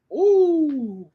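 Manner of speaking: high, surprised ooh; a sudden thrilled gasp of ooh; excited ooh. Real, not acted. Reacting to a proverb.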